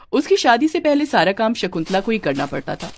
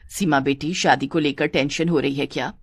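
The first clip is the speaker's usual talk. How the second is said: low, soft motherly voice; caring mother; 5 semitones lower, 4 dB quieter than usual. Acted. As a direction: gently ask as a concerned older mother. (ममता भरी माँ की धीमी आवाज़)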